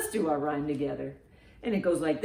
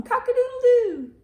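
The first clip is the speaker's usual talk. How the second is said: much higher, loud crowing cock-a-doodle-doo; rooster crow; 8 dB louder than usual. Acted. Storyteller crows like a rooster for the children, loud and high. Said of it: "Wake up and shout".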